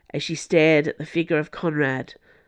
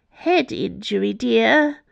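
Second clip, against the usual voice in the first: gently chiding, with a higher lilt; gentle reminder; 6 semitones higher than usual. A narrator's reading. Elderly nun reminding them of the injury, gently. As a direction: remind them kindly, lifting the pitch on "dear". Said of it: "reminded them gently".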